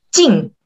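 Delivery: teacher's demo of falling 进; explosive falling tone. Shown as a demonstration. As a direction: fire off 进 as a small explosion.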